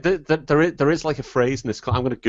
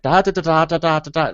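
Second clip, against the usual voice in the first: rapid run of nonsense syllables, higher; imitating unintelligible Irish speech; 5 semitones higher than usual. Man mimics his Irish friend's speech, nonsense babble. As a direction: babble like an accent too thick to follow. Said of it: "it's just sound".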